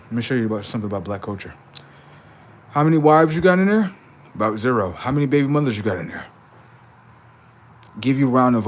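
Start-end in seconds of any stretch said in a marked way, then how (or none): 2.7-3.9 mock question. Mock interrogating someone in video.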